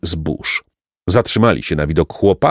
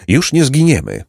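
higher voice, slightly tremulous with emotion; trembling voice; 6 semitones higher than usual. A narrator's reading. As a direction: say it with a mild quaver, pitched up. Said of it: "rzekł drżącym głosem".

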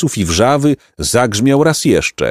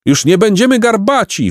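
high, jubilant crowd cry; raised, triumphant call; 12 semitones higher than usual. A narrator's reading. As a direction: proclaim freedom in a high shout. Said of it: "wołali".

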